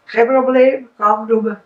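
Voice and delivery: loud breezy reassurance; magic fish granting. Acted. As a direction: shrug it off generously.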